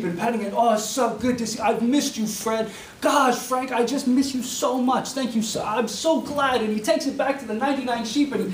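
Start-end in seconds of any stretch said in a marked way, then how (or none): 0.6-6.6 loving coo. Pretend. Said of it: "lovingly corra-, talking to the sheep".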